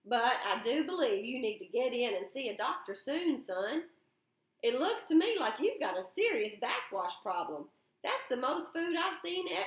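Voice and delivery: lightly voiced old man hamming up a scare story; teasing older man. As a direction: spin a tall tale to rattle the boy. Lefty on backwash.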